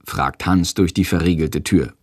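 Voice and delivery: ordinary delivery, nothing marked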